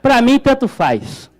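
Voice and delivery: put-on comically resigned old-timer's lament; mock depressed. Santos fan resigned in the sinking boat, mock depressed. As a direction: play at giving up on everything. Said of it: "já deprimido, fala".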